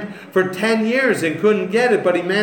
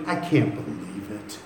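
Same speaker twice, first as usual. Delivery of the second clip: mopey whine; 9 semitones lower, 9 dB quieter than usual. Retold or imitated. Mocking a gloomy Christian.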